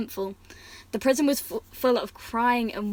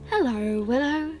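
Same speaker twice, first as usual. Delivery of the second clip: smiling greeting; 4 semitones higher than usual. Acted. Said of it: "she said, smiling".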